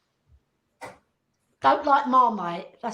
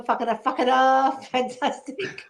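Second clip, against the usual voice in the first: catchphrase voice. Retold or imitated. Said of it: "I go".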